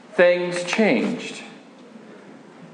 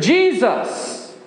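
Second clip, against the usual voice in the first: tearful cry; 3 semitones higher than usual. Retold or imitated. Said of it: "I cried out through my tears".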